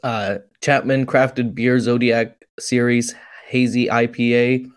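reading on, running out of breath; out of breath after a long list. Real, not acted. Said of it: "Let me catch my breath".

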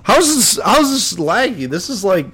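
glitchy robotic call audio; choppy, laggy robot-sounding line. Real, not acted. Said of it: "you sound like a robot".

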